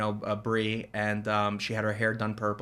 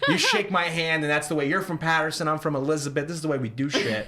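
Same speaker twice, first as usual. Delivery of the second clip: laughing; 4 semitones higher than usual. Retold or imitated. Landlord quoted, laughing through it.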